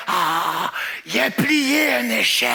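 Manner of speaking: mock announcement. Clerk announcing to the whole store. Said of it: "Elle fait".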